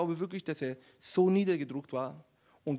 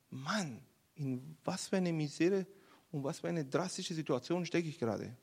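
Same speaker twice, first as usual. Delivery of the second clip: low, soft, sinking dismay; dismayed realisation; 3 semitones lower, 7 dB quieter than usual. Acted. David realising his miserable situation, quiet dismay. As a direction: let it sink in quietly.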